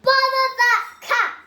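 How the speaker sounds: loud, high sing-song outburst; exasperated sing-song. A narrator's reading. Missus Thomas fed up with the cat, loud sing-song cry. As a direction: chant it, fed up. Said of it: "Missus Thomas said".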